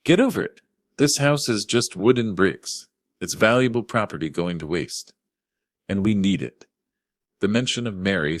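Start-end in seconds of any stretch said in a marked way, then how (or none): 0.0-6.7 much higher, louder furious snap; spat with venom. A narrator's reading. Chloe to Thomas about his dead wife, furious. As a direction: spit the words with venom. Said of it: "Chloe spat".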